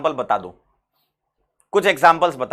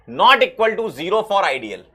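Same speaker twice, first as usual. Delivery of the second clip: "not" punched, whole phrase spoken very slowly; stress on not; 2 semitones higher, much slower than usual. Shown as a demonstration. Teacher drilling the "not" in the question, very slow. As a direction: stretch out "not equal to zero for ideal". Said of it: "देखो, not पूछा है".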